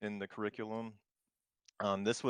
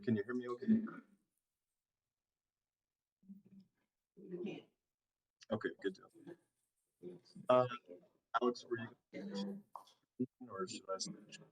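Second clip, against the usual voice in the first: choppy audio breaking up over a call; glitchy robotic call; 4 semitones higher, 3 dB quieter than usual. Real, not acted. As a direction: voice cutting in and out on a bad connection. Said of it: "your audio is breaking up just a little bit".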